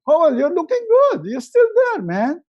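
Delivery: put-on high, delighted hello to an old friend; thrilled to see a friend on a video call; excited greeting. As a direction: greet him like a long-lost buddy. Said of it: "I feel like".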